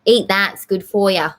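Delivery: repeated with a hint of Manchester accent; lightly Manchester-flavoured mum; mum's line again in a mild Manchester accent. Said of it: "I did it again".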